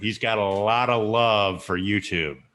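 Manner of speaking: slow, dry, sarcastic tone. Praising another YouTuber's love for YouTube to the others: sarcastic. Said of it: "I'm being sarcastic".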